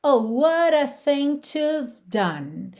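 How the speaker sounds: "to have done" sung with "have" reduced to "v"; contracted have. Shown as a demonstration. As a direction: sing "to've done", no H. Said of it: "um have que tá contraído". ("have" contraído, sem o H)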